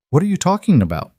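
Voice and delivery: fast, high, alarmed; shocked. Acted. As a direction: blurt it out in shock. Shocked by the news.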